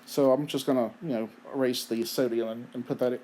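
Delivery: talking through hiccups; words broken by hiccups. Real, not acted. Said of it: "Sorry, I have the hiccups".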